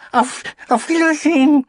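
very high, loud crowd farewell; calling out. Acted. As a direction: shout goodbye back together. Crowd calls back.

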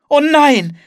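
high, loud cry of horror; horrified cry. A narrator's reading. Anne sees the tornado coming, crying out in horror. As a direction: cry out aghast, voice shooting up. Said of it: "rief Anne entsetzt".

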